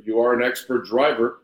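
ordinary talk

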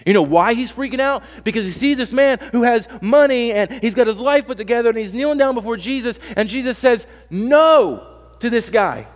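high, loud preaching push; impassioned preaching. Real, not acted. Pastor pressing the congregation on why Peter panics, loud and high. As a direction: lean into it, voice up and loud.

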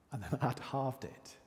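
laughing while confessing; rueful laugh. Real, not acted. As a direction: let a real laugh slip into the admission. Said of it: "I'm laughing now".

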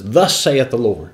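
"Thus saith the Lord" at normal pace, firm and pointed; pointing preacher. Retold or imitated. Preacher acting a prophet rebuking the people, brisk and pointed. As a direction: jab it out like wagging a finger. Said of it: "Gives them that preacher finger and says".

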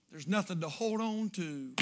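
put-on soft, fading voice of a dying child; hushed dying-boy plea; dying boy's whisper-soft words. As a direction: let it drift away, barely there.

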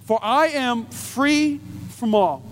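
slow reading of scripture. Acted. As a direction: read the verse with weight. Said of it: "This is what Paul says".

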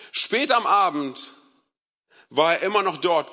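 measured, emphatic Bible reading; deliberate storytelling from the pulpit; scripture reading. A narrator's reading. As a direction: read it out clearly with weighty pauses. Reads the Bible passage aloud.

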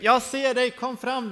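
retold demand to show yourself; acted challenge. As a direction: call out to a hidden prankster. Acted challenge to hidden prankster.

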